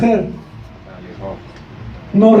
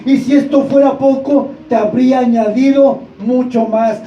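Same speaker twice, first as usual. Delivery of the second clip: insistent, raised preacher's cadence; fervent preaching; 3 semitones higher than usual. Real, not acted. Preacher reminds the church of God's miracles, fervent. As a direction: drive each question home to the congregation.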